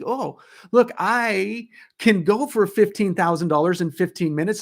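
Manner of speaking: a light, upbeat infomercial sales pitch. Retold or imitated. Coach catching herself pitching like an infomercial, mild sales voice. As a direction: sell it like a TV ad, lightly. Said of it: "you sound like an infomercial".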